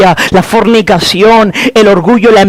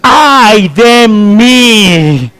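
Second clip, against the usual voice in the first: lamento; much slower than usual. Acted. Clamor de quebranto.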